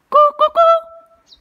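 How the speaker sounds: high, loud repeated coo; slow, ringing hoots thrown at the rocks; echo call. Real, not acted. Calling out to test an echo.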